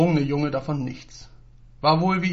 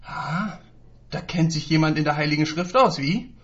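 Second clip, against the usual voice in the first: geknurrt; 2 semitones higher than usual. Acted. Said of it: "knurrte er".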